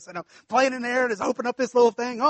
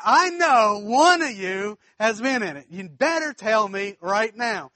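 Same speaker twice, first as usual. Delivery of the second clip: slow, louder stern demand; furious mom; 6 dB louder, slower than usual. Retold or imitated. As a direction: lay down the law like an angry mother. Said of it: "My mom is furious".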